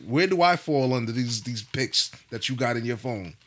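mock-wounded sarcastic questioning. Man asking wife where he ranks among pics, sarcastic. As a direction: needle them with dry comic questions. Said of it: "I'm gonna say something funny, something sarcastic".

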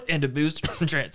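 coughing through the words; choking on a drink. Real, not acted. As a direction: choke and cough mid-sentence. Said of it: "sorry, I'm choking on irony".

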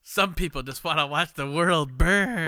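a hint of Michael Caine's Cockney accent; Michael Caine impression. A podcaster jokes to his friend in a light Michael Caine accent. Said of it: "That was a spot-on Michael Caine accent".

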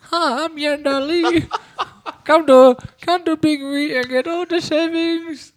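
hammed-up salesperson pitch. Yenda pitching savings over the phone, hammed-up ad. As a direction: sell the bargain like a cheesy ad. Playing shop ad voice.

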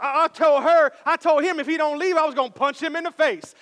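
mock tough-guy boast; imitating a tough guy. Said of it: "He's like".

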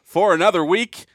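hammed-up host echo. Echoing the show jingle.

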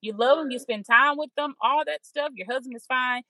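gently talking yourself down from the edge; reassuring self-talk. Retold or imitated. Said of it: "talk myself back into".

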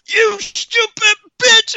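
very high, slow evil-doll screech; Chucky. Acted. Doll hanging there suddenly turns, high evil outburst. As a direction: stretch the curse out in a shrieky doll voice. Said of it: "coming from a doll, it's just like".

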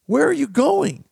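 high, loud mock yell after a rider; hammed-up shout to a passing horseman; yelled call. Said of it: "yelled at the rider".

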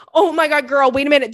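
she has lived this exact mishap; excited realization. Real, not acted. To the listener, loud excited recognition.

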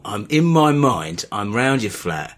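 slow, sinking mock-seductive murmur; creepy sex talk. Host fantasising to paying supporters, mock creepy sex talk. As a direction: play the creep, unhurried. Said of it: "This is the creepyometer raising".

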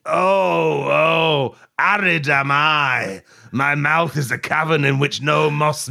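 hammy lamenting parched man; mock-tragic moan, slowing at the end; dry man voice. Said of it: "I'll be the dry man".

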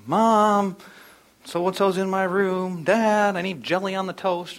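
put-on kids calling out. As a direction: imitate children hollering for their parents. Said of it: "they're always calling out to us".

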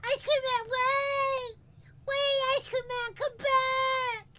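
very high, loud shout after a truck; hammed-up high-pitched holler; yelling. Shown as a demonstration. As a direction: yell desperately for the ice cream man to return. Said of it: "And I'll yell".

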